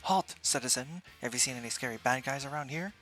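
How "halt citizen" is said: loud hero call; heroic shout. Acted. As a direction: command them to stop like a hero. Kid hero stops passerby.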